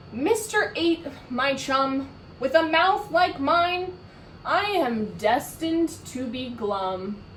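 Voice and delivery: a lightly voiced sulky fish; glum fish. Fish answering the octopus, mildly resigned.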